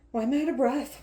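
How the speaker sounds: exasperated question. Real, not acted. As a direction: demand it loudly, a little worked up. Mock exasperation at being winded.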